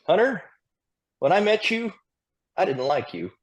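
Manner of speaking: high-pitched mock imitation of a blunt mentor; imitating Tony. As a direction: pitch it way up, teasing the old critique. Retelling Tony's blunt critique.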